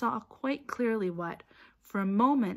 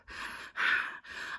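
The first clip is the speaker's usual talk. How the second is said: panting breath; 5 dB quieter than usual. A narrator's reading. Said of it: "Harry panted".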